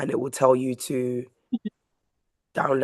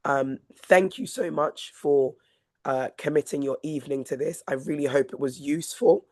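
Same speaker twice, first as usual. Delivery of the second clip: hoarse, failing voice; a voice going hoarse from illness; losing voice. Real, not acted. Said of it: "Sorry, I'm losing my voice".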